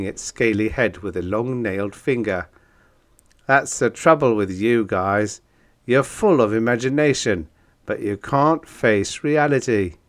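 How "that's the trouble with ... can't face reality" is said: lightly voiced monster, loud and lecturing; a hint of a brash creature scolding a writer; blunt Monbeast. Narrator voices the monster's dialogue.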